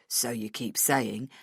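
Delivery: low, slow, unimpressed retort; dismissive boss. Acted. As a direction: brush it off wearily. Boss dismisses her argument.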